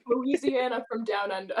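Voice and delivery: put-on joking Australian accent; lightly put-on Aussie accent for Louisiana; mock Australian accent.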